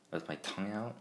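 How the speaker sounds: slurred speech with retainers in; talking around retainers; with braces. Real, not acted. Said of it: "I sound like I have braces on".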